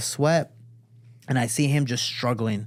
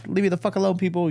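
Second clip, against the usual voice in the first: grumpy Squidward; 5 semitones higher, faster than usual. Retold or imitated. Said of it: "I'm like Squidward now".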